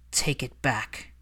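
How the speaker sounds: low, slow threat; slow menace. Acted. Malfoy crowding Hermione, slow menacing demand. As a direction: demand it through cold fury.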